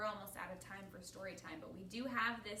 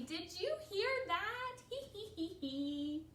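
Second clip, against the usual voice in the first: high, slow gleeful question into giggles; laughing; 8 semitones higher, 5 dB louder, slower than usual. A narrator's reading. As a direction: giggle through it as a tickled character. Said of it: "They're just laughing".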